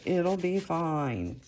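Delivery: slow self-reassuring "It'll be fine"; slow reassurance. Real, not acted. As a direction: talk yourself calm, slowly. Reassures herself tearing paper.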